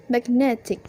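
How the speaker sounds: magnetic with the stress on NET; stress moved to NET. Shown as a demonstration. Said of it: "the stress move from mag".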